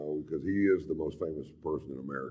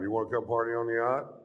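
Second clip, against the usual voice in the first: inviting question; 6 semitones higher than usual. Shown as a demonstration. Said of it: "let's try it one time".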